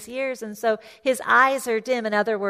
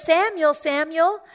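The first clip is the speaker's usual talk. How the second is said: higher, lifted call of a name; 4 semitones higher, 5 dB louder than usual. Acted. The Lord calls Samuel in the night, calling out. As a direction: call to someone asleep in another room.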